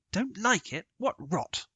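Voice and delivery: a bluff squire scoffing. Acted. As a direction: brush off the boy's fear. Sir Harry scoffs.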